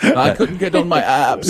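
high-pitched imitation of a whiner; mock whining. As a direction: whine it mockingly, pitched well up. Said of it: "that guy up there whining like".

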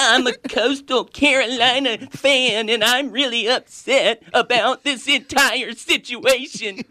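whiny crying fan. Pretend. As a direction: whine it like a sore loser fan. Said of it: "read it in a crying, whining voice".

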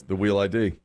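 R turned to W in WHEEL; imitated speech impediment. Co-host repeating the clerk's words, imitated speech impediment. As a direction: say "real" as WHEEL, mimicking the clerk. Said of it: "The R's".

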